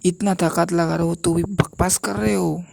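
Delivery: डाँट. Acted. Old master scolds struggling pupil. (हल्की डाँट, ऊँची आवाज़ में)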